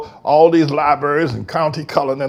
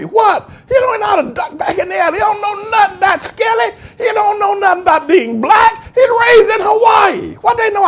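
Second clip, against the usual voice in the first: shouting; 4 dB louder than usual. Real, not acted. Ranting about Obama's upbringing.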